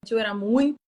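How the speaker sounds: choppy breaking-up call audio; corrupted glitchy audio. Real, not acted. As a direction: voice cutting out over bad Wi-Fi. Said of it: "O áudio tá falhando um pouco".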